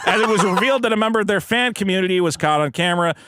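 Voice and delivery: deliberate mock-newscast delivery; news read. Co-host reads a charity scandal story, news read.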